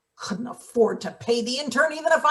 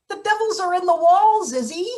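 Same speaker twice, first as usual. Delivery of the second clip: ominous warning; 7 semitones higher, 4 dB louder than usual. Acted. Baum warns of devils.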